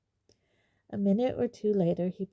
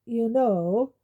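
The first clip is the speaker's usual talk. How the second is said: loud, higher, pointed opener; 4 semitones higher, 8 dB louder than usual. A narrator's reading. Sirius needling Snape, speaking loudly to the ceiling. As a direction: say it loud enough for the ceiling to hear. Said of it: "said Sirius loudly".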